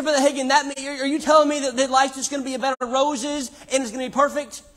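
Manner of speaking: high, insistent put-on challenge; mock questioner. Preacher voicing a listener doubting the promise, insistent mock question.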